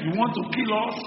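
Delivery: captain scolding Jonah, indignant; angry accusation. Acted. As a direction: accuse him for endangering everyone. Second, louder take.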